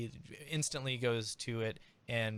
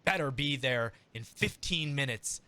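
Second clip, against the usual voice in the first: mild stormy order; 3 semitones higher, 4 dB louder than usual. Acted. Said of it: "he storms back off and he says".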